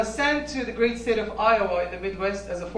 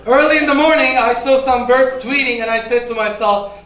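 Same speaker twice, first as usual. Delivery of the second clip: hippie impression; 10 dB louder than usual. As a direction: lay on the spaced-out hippie. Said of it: "Here's my impression of a paella hippie".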